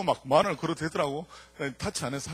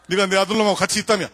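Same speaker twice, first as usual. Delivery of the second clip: menacing detective; 5 semitones higher, 11 dB louder than usual. Retold or imitated. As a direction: press the boy like a tough cop. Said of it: "이렇게 얘기를 하는 거야".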